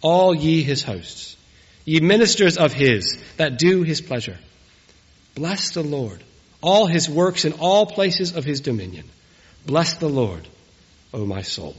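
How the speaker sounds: measured, solemn reading of a psalm; scripture reading. Acted. Minister reading the psalm to the wedding congregation, solemn reading.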